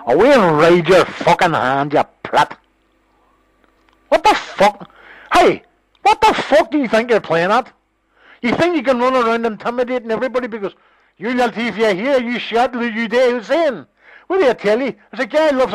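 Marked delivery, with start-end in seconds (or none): 4.1-10.5 sharp, high, heated challenge; incredulous angry shout; angry outburst. Real, not acted. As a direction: jump on him, high and furious. Phone row, shouting at caller.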